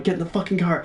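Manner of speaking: half-voiced imitation of screaming; retold scream, restrained. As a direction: urge it without really shouting. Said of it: "I keep screaming at Mike".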